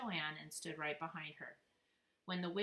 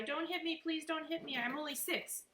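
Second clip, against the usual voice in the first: crying; 10 semitones higher than usual. Acted. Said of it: "Daniel started to cry".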